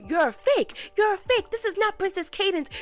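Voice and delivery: high, loud indignant call-out; acted outburst at an impostor; loud accusation. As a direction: cry it out accusingly, dragging the last insult.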